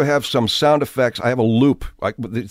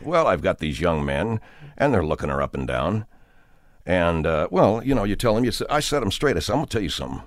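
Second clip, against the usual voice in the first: low, hushed coach with a grievance; a soft, serious warning from a protective husband; quietly menacing, pitched well down; earnest team coach; 6 semitones lower, 5 dB quieter than usual. Acted. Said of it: "getting a guy on the radio and saying".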